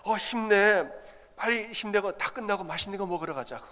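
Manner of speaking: pep up the wife in labour with a treat; husband eagerly cheering his wife on. Retold or imitated. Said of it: "격려한다고".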